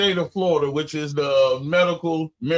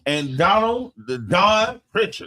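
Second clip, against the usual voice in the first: boxing announcer; 3 semitones higher than usual. Pretend. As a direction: stretch the names like a fight intro. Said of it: "I sound like a, a boxing announcer".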